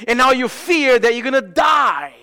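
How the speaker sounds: sudden shout about dying; preacher's shout. Acted. Preacher shouts a warning to the congregation about dying. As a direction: call it out hard to the room.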